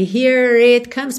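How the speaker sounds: here it comes with the R linking into it; linked R. Shown as a demonstration. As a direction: roll the R in here straight into it. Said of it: "enrolando a língua no R". ("here it comes" com R ligado)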